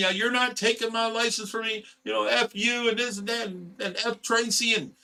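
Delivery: mock loopy, high-pitched screaming tirade. Retelling how a visitor accused the speaker of taking her license: imitating someone screaming. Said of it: "she started screaming".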